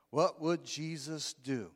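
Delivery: slow, even reading of "What would Jesus do?"; slow recitation. Shown as a demonstration. Preacher reciting slogan to the church, slow and even. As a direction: spell out the slogan slowly. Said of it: "W W J D".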